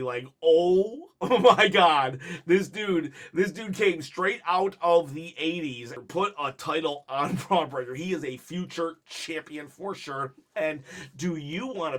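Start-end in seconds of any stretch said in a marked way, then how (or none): 0.4-7.9 laughing hysterically. Retold or imitated. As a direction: imitate him cracking up mid-sentence. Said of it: "starts laughing hysterically".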